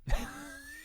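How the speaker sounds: short breathy laugh. Real, not acted. Reviewer breaking off over the film's dead end, short laugh. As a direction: let out a brief, voiceless laugh.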